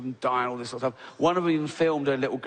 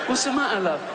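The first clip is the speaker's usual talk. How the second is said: much higher, faux-caring voice; mock-innocent concern; 8 semitones higher, faster than usual. Comic playing innocent to the choking lady, much higher. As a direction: play dumb sweetly. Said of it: "I go".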